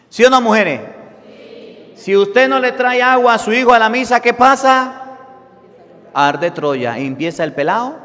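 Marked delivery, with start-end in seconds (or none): 0.1-5.2 loud, high pulpit call to the women; loud preaching, higher and louder; fervent preaching. Acted. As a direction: press the question on the congregation. Preaching at full force.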